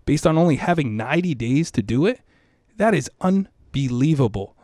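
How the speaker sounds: fired up, pitch lifted on the big points; passionate. Real, not acted. School leader proudly telling an interviewer of an unbelievable feat, passionate. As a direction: make the case with real passion. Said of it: "I hear the passion in your voice".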